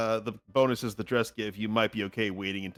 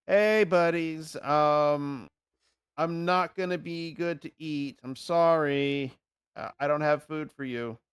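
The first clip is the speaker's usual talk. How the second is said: drawn-out, raised-pitch call to the pack; 4 semitones higher, slower than usual. Acted. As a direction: call out slowly in an apologetic singsong. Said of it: "I shout out them like".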